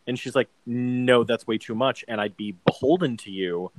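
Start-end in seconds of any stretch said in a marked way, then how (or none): 0.7-2.0 stark, even refusal; understated firm objection; staunch. Retold or imitated. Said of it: "staunch, stark, sort of like". 2.1-3.7 stark, deliberate insistence; imitating a principled, unbending refusal; staunch. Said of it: "staunch, stark, sort of like".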